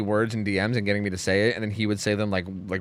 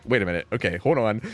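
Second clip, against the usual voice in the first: calming down; 2 semitones lower than usual. Retold or imitated. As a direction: drop the pitch and collect yourself. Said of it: "calms down".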